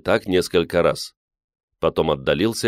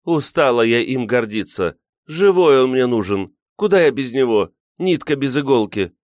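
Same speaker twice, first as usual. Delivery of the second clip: higher-pitched lament of a weary wife; sorrowful; 7 semitones higher, 3 dB louder than usual. A narrator's reading. Older woman tired of being proud of him, sorrowful. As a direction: plead your grief, voice lifted. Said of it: "горестно вздохнула Анна Григорьевна".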